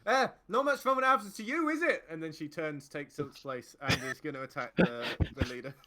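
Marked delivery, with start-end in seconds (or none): 0.1-2.0 high, loud gloating taunt; taunting woman. Acted. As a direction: rub it in with glee. GM voices Rhea taunting.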